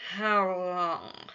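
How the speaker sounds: loud, pointed question; demanding. A narrator's reading. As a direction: demand an answer. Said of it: "Janus demanded".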